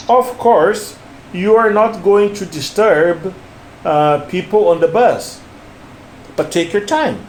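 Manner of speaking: "Of course" set apart, then "disturb" before a pause; phrase by phrase, "take your time" falling at the end; model stress and intonation. Shown as a demonstration. Teacher tells learner to listen again, deliberate phrased model. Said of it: "Listen to me again".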